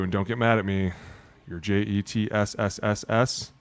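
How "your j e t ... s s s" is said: hissing the last S; drawn-out s like a snake. Acted. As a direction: stretch the S out like a snake. Spelling out Jets, hissing the S.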